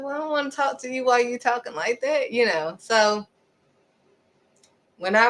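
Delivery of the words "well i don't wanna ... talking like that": higher, quick mock protest; offended refusal. Offended caller refusing to talk to the irritated speaker, miffed. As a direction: refuse in a raised, hurried voice.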